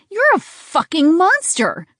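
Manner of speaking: high, slow enraged yell; furious scream. A narrator's reading. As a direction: scream it at the monster. She screams at captor.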